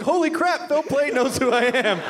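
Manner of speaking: excited. Retold or imitated. Mirrors thrilled reaction.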